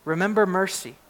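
ringing, measured pulpit reading of scripture; preacher reading Habakkuk aloud to the church, proclaiming. Acted. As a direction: proclaim the psalm to the congregation.

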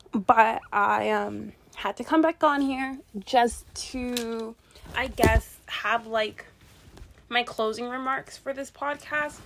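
talking while straining over laundry; strained, effortful speech while lifting; effort grunt. Real, not acted. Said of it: "I apologize if you hear me, um, grunting".

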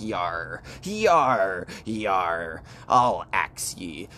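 put-on growly "yar" voice, mostly low; troll-like axe man. Axe man threatening the kids on the island, troll-like. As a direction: play a hammed-up troll, drawing out the threat. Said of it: "He looks like a troll".

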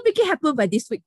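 mock outraged quote. Re-quoting the client's curt order, high-pitched outrage. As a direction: blow up his words in disbelief. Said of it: "句号".

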